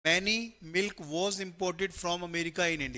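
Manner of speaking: very slow, word by word reading of the question. Shown as a demonstration. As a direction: read the sentence out slowly for the class to copy. Rereading the question sentence.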